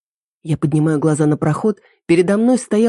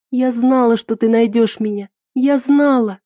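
сквозь слёзы, с облегчением; 6 semitones higher than usual. A narrator's reading. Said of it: "разрыдалась тоже".

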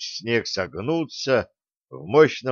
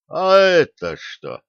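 higher, louder, slow startled question; startled grumble; 6 semitones higher, 5 dB louder, slower than usual. A narrator's reading. Pensioner trips over a heavy bag, startled grumble. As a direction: trip and ask what it is. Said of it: "проворчал мужчина".

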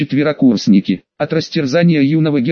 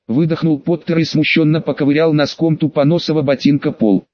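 usual speaking voice

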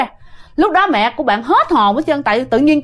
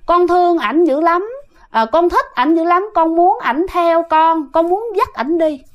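soft, coy plea, voice a little higher; a possessing spirit begging sweetly; gentle, coaxing ghost voice; 5 semitones higher than usual. Retold or imitated. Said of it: "nói nhẹ nhàng lắm nghe".

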